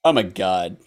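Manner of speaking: low, offhand god; indifferent god. Acted. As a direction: drop it low and dismissive. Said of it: "Greek mythology is just like".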